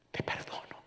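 "Te perdono" whispered, breath only; a wife whispering "Te perdono" to her husband; whispered forgiveness. Retold or imitated. Repeated as a whisper.

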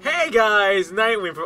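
mild mock yell into a mic; mock scream. Co-streamer shows how to connect with people, mock scream. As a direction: call out as if half-screaming into a mic. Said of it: "you could just scream into a mi".

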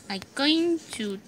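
hushed whisper; soft breathy gaming whisper. Real, not acted. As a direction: whisper as if sneaking into your cave. Whispering while exploring the game.

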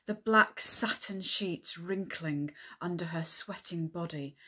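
measured author's story narration; earnest romance narration with deliberate phrasing; novel reading. Acted. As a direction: read a steamy romance passage to an audience. Reads own erotic novel aloud.

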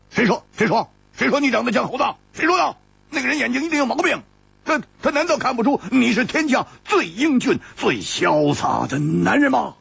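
high, rapid-fire protest; hammed-up indignation; mock indignant flattery.

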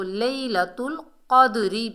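लैलतुल क़द्री with a full final "ree"; continuing-form recitation. Shown as a demonstration. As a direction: run क़द्री on with its ending vowel sounded. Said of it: "अगर वक्फ नहीं करेंगे तो".

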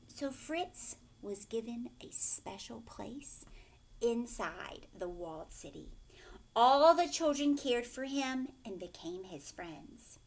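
lively storybook reading, dropping to a hush for suspense; reading to children. A narrator's reading. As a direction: read it like a picture book for a class. Teacher reads picture book aloud.

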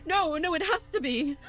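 high, loud frantic disbelief; panicked denial. Acted. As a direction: refuse to accept it. Host panics at wrong answer.

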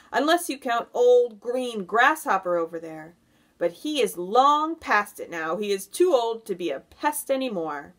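loud, teasing centipede voice; cheeky centipede. A narrator's reading. Centipede poking fun at old grasshopper, cheeky and loud. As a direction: tease with punched, swooping words.

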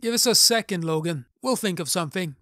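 shouting. Acted. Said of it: "I shouted".

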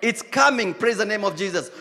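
ordinary delivery

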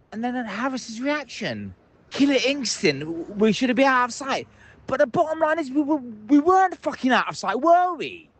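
high-pitched, worked-up fan venting; fan's voice climbing in disbelief; exasperated rant. Real, not acted. Furious fan ranting on phone-in.

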